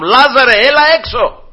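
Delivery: high, ringing summons; calling out. Acted. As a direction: call him out by name, voice rising. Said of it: "φώναξε τον Λάζαρο με το όνομά του". (δυνατό κάλεσμα με το όνομα)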